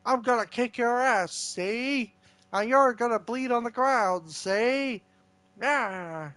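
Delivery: lightly voiced old-time mob boss; mob boss impression. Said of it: "try your mob boss impression".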